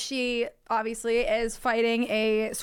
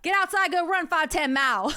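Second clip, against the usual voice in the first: dad voice; 7 semitones higher, 4 dB louder than usual. Retold or imitated. Imitating dad's nagging.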